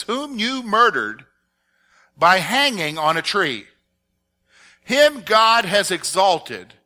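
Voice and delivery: measured public scripture reading. Acted. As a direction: read the verse out with weighty emphasis. Reads the Bible passage aloud.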